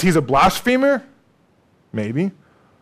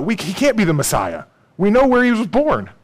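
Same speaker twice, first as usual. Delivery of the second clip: mocking the religious leaders; 6 semitones higher than usual. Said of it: "that's what they thought".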